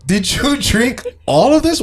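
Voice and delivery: high squealing laugh through the question; mock shocked laughing; laughing disbelief. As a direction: laugh in disbelief at the empty bottles.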